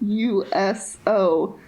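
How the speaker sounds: slow, spaced-out letters; writing it down. Real, not acted. Host noting the joke term down, slow spelling. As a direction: spell it out slowly as you write. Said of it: "I'm gonna write that down".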